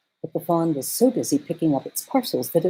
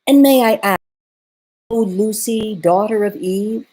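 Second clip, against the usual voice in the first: lightly raised, polite fawn voice; a courteous little faun, a touch higher; 5 semitones higher, 3 dB louder than usual. A narrator's reading.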